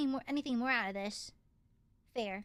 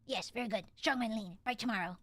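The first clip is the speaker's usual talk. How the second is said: lightly voiced low kobold, broken English; curt little kobold grunting answers; 5 semitones lower than usual. Kobold praises party.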